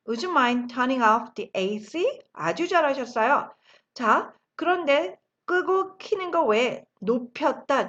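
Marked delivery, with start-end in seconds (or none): 0.1-2.2 very slow, every word laid out; slow model sentence. Shown as a demonstration. Teacher modelling the phrase slowly for the class. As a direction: spell it out slowly for learners to copy. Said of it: "다시 한번 할까요".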